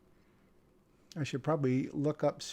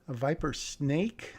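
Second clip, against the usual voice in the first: puzzled. Real, not acted. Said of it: "don't need to capitalize snake".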